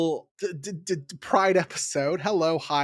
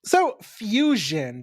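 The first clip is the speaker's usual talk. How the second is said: drawn-out announcement; 5 semitones higher, much slower than usual. Acted. Announcing the episode topic.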